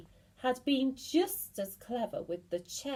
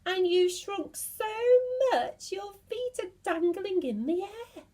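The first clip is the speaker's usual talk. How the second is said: higher, loud gloating cry; mocking cry; 11 semitones higher, 4 dB louder than usual. Mr Twit gleefully taunting his wife, gloating. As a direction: crow it at her with glee. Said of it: "he cried".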